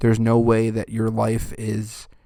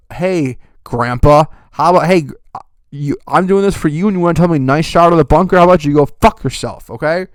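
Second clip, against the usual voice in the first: louder, rising angry outburst; angry rant; 4 semitones higher, 5 dB louder than usual. Acted. Host yelling at the commercial grandpa, louder and angry. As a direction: tell him off, loud and fed up.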